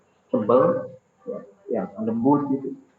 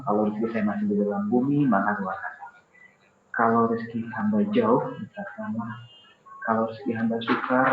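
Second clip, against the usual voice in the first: contoh doa dhuha; 3 semitones lower, 3 dB quieter than usual. Acted. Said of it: "Contohnya gini deh".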